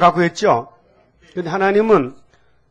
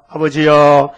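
mock vengeful prayer; 2 semitones lower, 4 dB louder than usual. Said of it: "했어요?".

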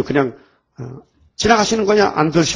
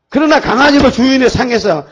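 higher, louder earnest confession; humble plea; 7 semitones higher, 5 dB louder than usual. Acted. Canaanite mother humbly confessing to Jesus, high and earnest. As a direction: beg humbly. Woman continues her plea.

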